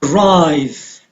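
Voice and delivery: "Arrive" with a light A and stressed RRIVE; second-syllable stress. Shown as a demonstration. Teacher showing students where stress falls, "Arrive" stressed on second syllable. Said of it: "on the second syllable".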